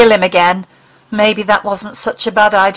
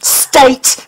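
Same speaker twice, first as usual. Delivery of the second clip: a higher, hard single word; harsh; 5 semitones higher, 3 dB louder than usual. Acted. Mulder corrects the alien harshly, higher pitched. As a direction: bite the word off. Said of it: "he said harshly".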